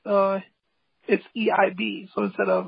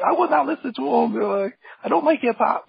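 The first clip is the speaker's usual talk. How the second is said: a touch of mock anger, pitched higher and louder; frustrated retort; 4 semitones higher, 3 dB louder than usual. Hip hop skeptic snapping back at the calm artist, mildly frustrated. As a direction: play the grumpy hip hop hater, mildly riled. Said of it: "the other guy was getting frustrated and angry".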